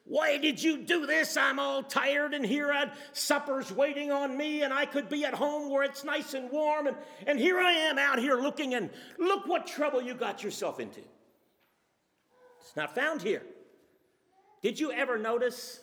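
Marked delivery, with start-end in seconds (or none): 0.0-11.0 raised, hammed-up scolding of a stray sheep; a shepherd telling off the lost sheep in mock anger; mock berating. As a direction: grumble and scold like a tired, put-out shepherd. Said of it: "kicking and shouting and berating".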